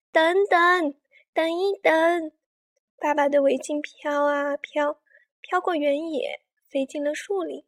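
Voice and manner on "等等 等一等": a mildly raised, urgent call. Acted. Child calling after a scarf blown away, calling out.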